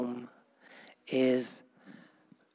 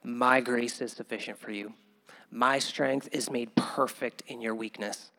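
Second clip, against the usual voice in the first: softer, calm reassurance; gentle voice of God; 4 semitones lower, 5 dB quieter than usual. Retold or imitated. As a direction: reassure him quietly and kindly. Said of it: "And God just said".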